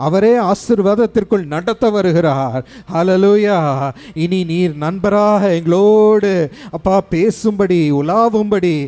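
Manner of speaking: rising fervent preaching. Acted. Pastor prays the Spirit over the congregation, building. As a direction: build to a triumphant hallelujah.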